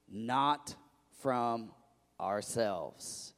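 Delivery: slow, solemn Bible reading; scripture reading. Acted. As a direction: lay each word out for the congregation. Reads scripture aloud slowly.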